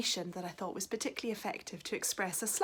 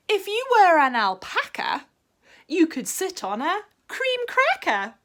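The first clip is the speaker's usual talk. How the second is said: excited dog; 10 semitones higher, 10 dB louder than usual. Acted. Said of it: "said the dog".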